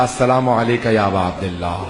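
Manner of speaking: mildly trembling, awed salaam; a touch of shaking reverence; trembling greeting. Retold or imitated. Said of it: "کانپتا ہوا میں نے کہا".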